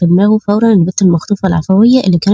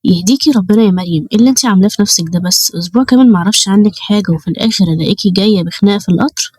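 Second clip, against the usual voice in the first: tender tone. Acted. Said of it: "نبرة صوته كانت كلها حنية ولطف".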